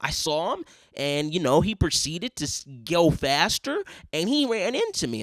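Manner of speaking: mock accent-free American English; accent suddenly gone. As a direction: imitate a man who has dropped his Asian accent. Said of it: "that accent is gone. Now he's like".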